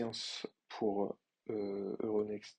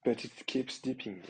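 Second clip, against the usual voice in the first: put-on a light, jokey English accent; lightly put-on English accent for the meme; mock English accent; 2 semitones higher, 3 dB louder than usual. Reading the meme caption aloud in a mock English accent. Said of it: "avec mon super accent, euh, anglais".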